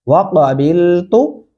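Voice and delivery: वाक़बिलतु slowly, ending on a short तु; slow model वाक़बिलतु, brief last vowel; short final tu. Shown as a demonstration. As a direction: hold बिल, do not stretch तु in वाक़बिलतु. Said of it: "ता को खींचना नहीं है".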